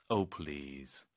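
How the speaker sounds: soft, low, dismissive "Oh, please"; scoffing oh please. Shown as a demonstration. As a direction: brush the claim aside. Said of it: "그래서". (낮고 조용한 어이없음)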